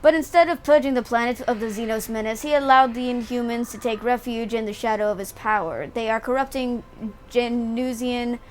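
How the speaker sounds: measured narrator voice reading the scene; game dialogue read. Acted. Streamer reading the tribunal scene aloud, measured and formal. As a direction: read the Inquisitor's charges like a story.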